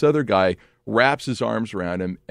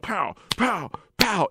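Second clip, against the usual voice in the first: high, popping "pow"s; punchy repeated impact words; punch sound effects; 10 semitones higher, slower than usual. Retold or imitated. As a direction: imitate blows landing one by one.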